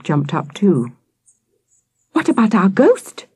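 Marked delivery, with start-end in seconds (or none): 2.1-3.3 put-on high, insistent child; demanding. A narrator's reading. Victoria racing to the tents, demanding attention. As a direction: insist on it, pitched up. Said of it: "Victoria demanded".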